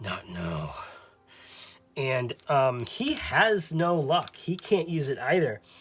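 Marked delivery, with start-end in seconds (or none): 0.0-0.7 muttered under the breath, lower and quieter. Voicing a character whose healing touch fails: muttered under his breath. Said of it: "under his breath".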